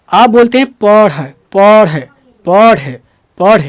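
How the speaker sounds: पढ़ said with a breathy aspirated ढ, the wrong way; teacher mimicking the common wrong पढ़. Shown as a demonstration. Teacher demonstrating the wrong पढ़ to students. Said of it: "अढ़ नहीं, ढ बोलना है".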